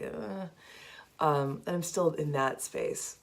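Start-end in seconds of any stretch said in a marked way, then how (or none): 0.0-0.5 soft, short groggy "uh"; groggy waking groan. Acted. Host showing how waking up feels, groggy soft groan. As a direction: let out a half-asleep grunt. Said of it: "when you wake up and you're just like".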